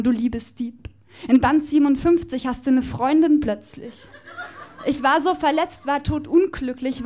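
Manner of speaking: performed slam poem, rhythmic and playful; poem recitation. Acted. Poet performing a love declaration to Justus Jonas on stage, rhythmic and playful.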